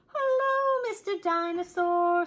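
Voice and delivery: high, loud joyful hello; delighted greeting. Acted. Peppa welcomes back her brother's toy, high and joyful. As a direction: greet an old friend.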